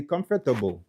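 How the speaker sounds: comfortable in four syllables, British way; British pronunciation. Shown as a demonstration. Teacher showing how people from England say it, British pronunciation. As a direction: say comfortable with a separate "fuh" before "tuh". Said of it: "gen moun ki soti an Angletè".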